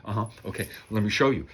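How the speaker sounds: imitating a careful, businesslike salesman; restrained, careful salesman act; pure business. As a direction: play it all business, nothing chummy. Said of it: "It was like pure business".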